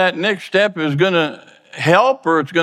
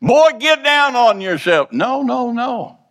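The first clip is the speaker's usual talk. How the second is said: mock shout; 10 semitones higher, slower than usual. Preacher shouting what discouragement never says. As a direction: bark it like a pushy inner voice. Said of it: "It doesn't shout".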